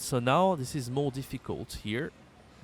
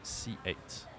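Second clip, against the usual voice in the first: 1 whispered prompt; 10 dB quieter, much slower than usual. Shown as a demonstration. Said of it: "How to say C eight in French?".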